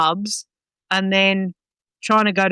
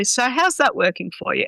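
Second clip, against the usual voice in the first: politely asked, pitched a little higher; 4 semitones higher than usual. Acted. Trainer asks owner for feedback instead of swearing, politely. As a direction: put it as a courteous request for feedback. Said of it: "you say it politely".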